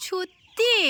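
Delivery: lightly mimicked cute toddler word, drawn out; imitating toddler. Parent echoing the toddler's pretty word, imitating toddler. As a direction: echo a small child's word, slowly and fondly. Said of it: "কত সুন্দর করে বলে".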